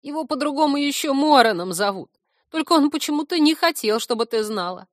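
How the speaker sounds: high, put-on whiny voice; confess, then lament your troubles loudly; grumbling creature. Grumbling stump explains, complains.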